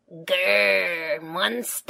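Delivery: a little mock monster growl; lightly voiced toddler pretending to be scary. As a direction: growl it like a tiny child playing monster. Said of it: "says George".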